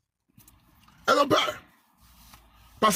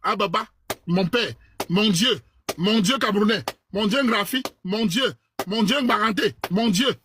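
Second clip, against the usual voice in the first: meek pleading wife; slower than usual. Pretend. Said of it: "elle parle comme ça".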